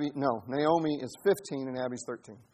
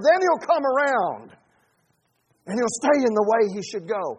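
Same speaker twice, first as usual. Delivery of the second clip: sarcastic paraphrase; 6 semitones higher, 8 dB louder than usual. Retold or imitated. Mocking how proverb is interpreted.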